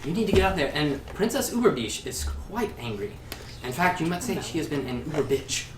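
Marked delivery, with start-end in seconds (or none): 0.0-3.1 high, pressing and loud; urgent gnome. Acted. Gnome urges the bard onstage, high and pressing. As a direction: hurry him out the door.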